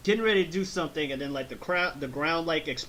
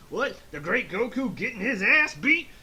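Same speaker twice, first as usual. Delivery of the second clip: higher, louder hammed-up southern voice; southern accent; 7 semitones higher, 4 dB louder than usual. Thirteen mocking Goku getting beaten, exaggerated southern accent. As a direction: crow in a swooping mock southern twang. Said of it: "got the southern accent".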